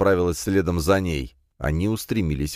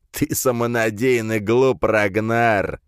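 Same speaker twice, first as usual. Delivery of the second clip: sneering panto villain; 5 semitones higher, slower than usual. Acted. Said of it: "засмеялся он в ответ".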